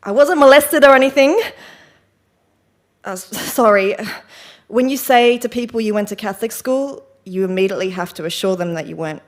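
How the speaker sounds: lightly acted confessional monologue, defensive and wry; Bernadette. Troubled woman tells the audience why she had a breakdown, lightly acted, wryly defensive. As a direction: explain yourself with emphatic bursts, then rueful drops.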